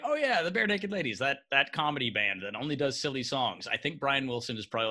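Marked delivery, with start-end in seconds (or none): 0.0-3.7 dismissive quote. Retold or imitated. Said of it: "somebody does say".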